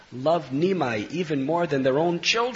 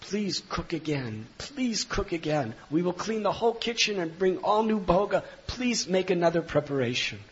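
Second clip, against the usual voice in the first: mild, higher-pitched begging; 5 semitones higher than usual. Acted. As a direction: beseech him, drawing out the please. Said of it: "begged the Brahmin".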